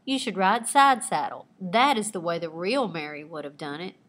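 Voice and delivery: a touch of a prim director laying down the rule; snobby nasal twang. Acted. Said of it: "in a snobby nasal twang".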